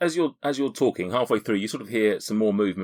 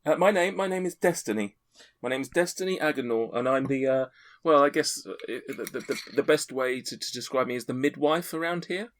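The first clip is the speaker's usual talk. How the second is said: put-on much higher, chatty older woman; Destiny the midwife; 8 semitones higher than usual. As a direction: talk like a proud, fussy midwife mother. GM keeps voicing Destiny the midwife.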